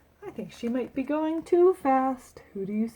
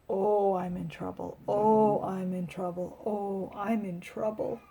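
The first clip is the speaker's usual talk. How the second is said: worried murmur; 3 semitones lower, 6 dB quieter than usual. Acted. Loretta worried going home.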